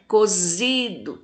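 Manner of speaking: "Cozido" slowly, ZI drawn out; long stressed ZI in "Cozido"; tonic syllable stressed. Shown as a demonstration. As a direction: lean on ZI in "Cozido". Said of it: "fala com mais intensidade".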